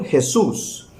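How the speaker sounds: Jesús with a Spanish "j" as in "khe-soos"; plain Spanish Jesús; Spanish pronunciation. Shown as a demonstration. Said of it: "En español".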